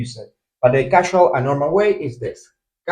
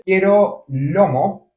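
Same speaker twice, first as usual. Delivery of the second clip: slow demo; 4 semitones higher, much slower than usual. Shown as a demonstration. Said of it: "we would say, for example".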